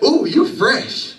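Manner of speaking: slow drawn-out ooh, you fresh; admiring compliment. Retold or imitated. Admirer complimenting new Jordans, slow and drawn out. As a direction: stretch it out like an impressed admirer. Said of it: "you want them to say".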